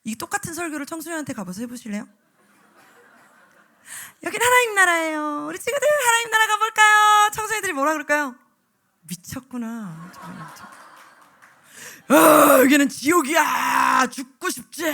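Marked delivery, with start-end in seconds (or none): 4.2-7.3 sugary preacher voice. Retold or imitated. Preacher mocking teen sermon. 9.0-14.8 put-on teen sneer. Imitating sneering teens.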